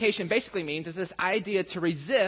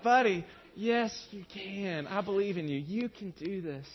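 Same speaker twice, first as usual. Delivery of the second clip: gentle encouragement; 4 dB quieter, slower than usual. Retold or imitated. Dad encouraging son to wait.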